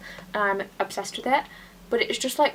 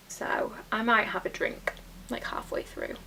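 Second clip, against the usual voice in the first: hushed whisper, sharing a secret; conspiratorial whisper; 5 dB quieter than usual. Real, not acted. Whispering to viewers about a sneaky drink. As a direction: whisper it like a little confession.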